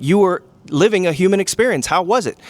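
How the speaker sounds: lightly voiced cheerful greeter asking about life; upbeat afterlife greeter.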